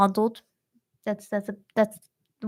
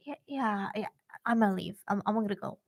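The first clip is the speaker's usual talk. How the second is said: hesitant excuse; 8 dB quieter, faster than usual. Retold or imitated. Wary girl excuses herself and leaves.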